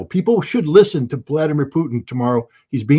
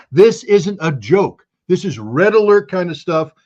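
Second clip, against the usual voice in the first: retold urgent screaming; 4 semitones higher than usual. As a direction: imitate someone sounding the alarm, stressing each word. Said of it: "He is right now screaming to the White House".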